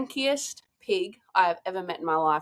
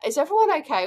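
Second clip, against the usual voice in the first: calling out; 9 semitones higher, 5 dB louder, faster than usual. Retold or imitated. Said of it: "Tom's up there on the thermal like".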